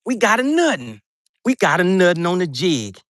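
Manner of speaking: high, excited call; hooked one, say it up high; excited catch. Real, not acted. Streamer thrilled to hook a fish, excited.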